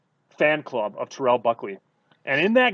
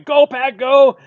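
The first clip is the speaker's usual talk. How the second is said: much higher, much louder fan chant; screaming cheer; 10 semitones higher, 12 dB louder, slower than usual. Retold or imitated. Kid cheering wildly at the TV after a touchdown, screaming. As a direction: shout it like a kid cheering on the team. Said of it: "I'm just screaming".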